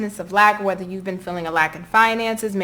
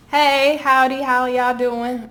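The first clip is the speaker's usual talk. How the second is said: higher, drawn-out Southern greeting; Southern accent; 4 semitones higher, 3 dB louder, much slower than usual. Real, not acted. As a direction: slip into a stretched-out Southern howdy, pitched up. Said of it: "I try to hide my southern accent".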